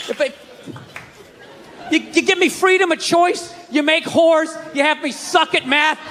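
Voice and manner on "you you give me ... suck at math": high, heated and shouting at God; exasperated rant. Acted. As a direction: vent at the creator, pitch climbing.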